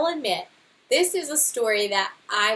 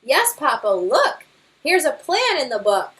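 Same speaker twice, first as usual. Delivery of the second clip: alarmed cub; 3 semitones higher, 6 dB louder than usual. Acted. Cub calling out as his father's knot fails, alarmed. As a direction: shout as Dad falls.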